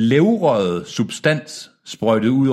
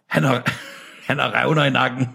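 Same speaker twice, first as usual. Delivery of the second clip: higher voice breaking into laughter; cracking up; 10 semitones higher than usual. Real, not acted. Reader losing it over the neck cracks, helpless laughter. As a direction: try to read on, then burst out laughing.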